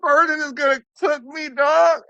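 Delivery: a cartoon sob voice, high and loud; mock bawling. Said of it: "he's bawling".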